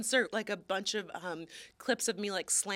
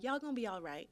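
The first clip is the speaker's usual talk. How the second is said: comforting auntie; 8 dB quieter, faster than usual. Pretend. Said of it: "I'm like your auntie".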